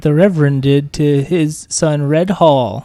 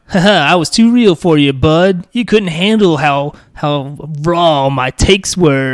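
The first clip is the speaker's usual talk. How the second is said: mocking smug troll; slower than usual. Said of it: "they see that as".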